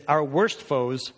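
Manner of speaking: slow, weighty quotation; solemn slow reading of a commentator; slow quote read. Real, not acted. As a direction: lay each phrase down deliberately. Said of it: "And he said this".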